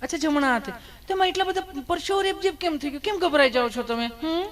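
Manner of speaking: high, sugary nurse coaxing; nurse's voice. Retold or imitated. Nurse coos at a nervous patient, high and sugary. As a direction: raise it high and sweet like a doting nurse.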